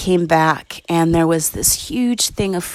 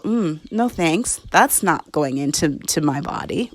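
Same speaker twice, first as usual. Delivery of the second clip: soft, calm refusal; 5 dB quieter than usual. Pretend. Body declining the food.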